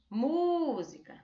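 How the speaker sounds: música with a long, high MÚ; MÚ drawn out, rest of música falling away; calling-out stressed syllable. Shown as a demonstration. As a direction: call out "música" slowly, stretching the ú. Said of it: "chamando essa palavra".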